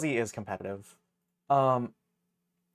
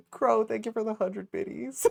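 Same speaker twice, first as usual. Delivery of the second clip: much higher, louder thanks; excited; 9 semitones higher, 6 dB louder than usual. Real, not acted. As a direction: gush the thanks out.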